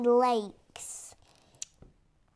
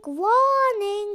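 voiced robotic alarm, a bit louder; ship alarm voice; 4 semitones higher, 5 dB louder than usual. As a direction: call it out like a ship's computer. The ship's alarm speaks.

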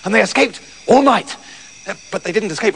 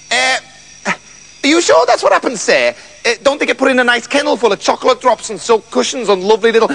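put-on timid old dog pleading hopefully; worried dog, rushing as it goes on; anxious dog; 3 semitones higher than usual. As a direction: nervously question the master, then gabble hopefully. Dog timidly questions its master.

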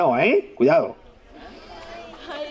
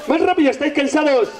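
urging call; 5 semitones higher than usual. Real, not acted. Urging kids in exercise.

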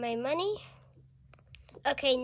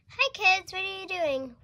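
cheery parent greeting; 7 semitones higher, 4 dB louder than usual. Pretend. Pretend parent greets toy kids.

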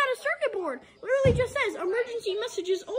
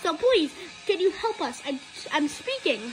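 Foxy voice; 4 semitones lower than usual. Acted. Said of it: "I do when I talk like this".

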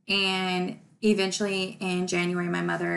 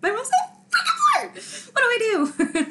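high, loud, laughing through the words; 13 semitones higher, 5 dB louder than usual. Real, not acted. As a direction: laugh helplessly while asking. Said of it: "then I just start laughing".

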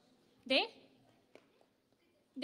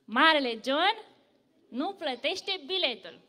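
slow, booming, much louder; loud boast; 5 dB louder, slower than usual. Acted. Big John boasting to the bus, slow and loud. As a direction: boom out your own name like a giant. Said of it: "Tare, așa".

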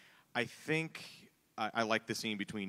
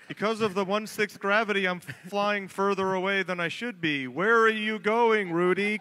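much higher and louder, shouting as you float away; moon-gravity improv; 9 semitones higher, 9 dB louder than usual. Pretend. Improv scene on the moon for the panel, high excited shouting. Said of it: "you're on the moon".

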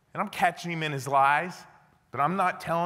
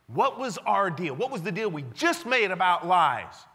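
stern demand; 3 semitones higher than usual. Retold or imitated. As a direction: demand an answer, each word weighed. Confronting the prisoner about lies.

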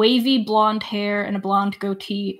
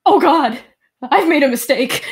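louder, higher panicked cry; panicked NPC; 5 semitones higher, 7 dB louder than usual. Acted. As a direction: blurt it out in alarm. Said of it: "and he's like".

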